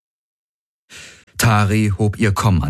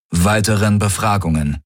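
ordinary delivery

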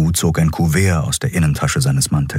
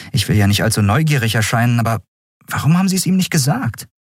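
fast, higher, needling question; pushy young woman; 5 semitones higher, faster than usual. Acted. Endriel presses Keru, fast and pushy. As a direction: press him with mock politeness.

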